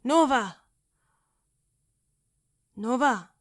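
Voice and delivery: desperate calling. Acted. Calling to dying friend, pleading.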